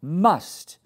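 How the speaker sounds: "must" pressed hard and falling; emphasized must. Shown as a demonstration. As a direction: lean on "must". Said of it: "I emphasize that".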